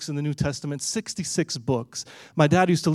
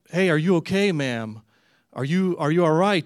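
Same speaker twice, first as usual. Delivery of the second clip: louder, higher check on someone unresponsive; raised-voice, concerned hail; retold calling out; 3 semitones higher, 5 dB louder than usual. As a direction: call out to rouse someone lying down. Asking again, rousing the woman.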